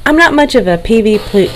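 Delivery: real stumble on P V P, the last letter slurred to plu; tongue-tied. Real, not acted. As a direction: trip over the letters P V P and lose the last one. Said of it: "you'll hear me get tongue-tied a lot".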